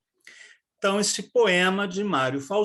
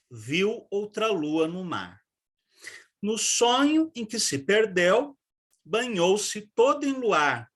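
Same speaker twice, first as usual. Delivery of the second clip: measured, even poetry recital; flowing first reading of the poem. Shown as a demonstration. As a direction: read the verses aloud for the class. Teacher reads the poem aloud.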